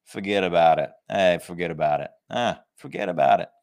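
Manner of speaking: hammed-up Italian-American mobster accent. Preacher jokes with congregation as mobsters, mock Italian accent. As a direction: play at an Italian mafia accent. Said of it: "in our best Italian accent? Like we're working for the mafia".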